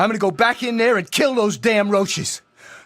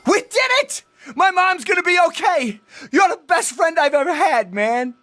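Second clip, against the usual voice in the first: excited; 6 semitones higher than usual. Acted. Celebrating the rescue.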